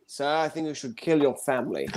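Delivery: a hint of a discreet servant advising his master; butler. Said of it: "my butler kept telling me".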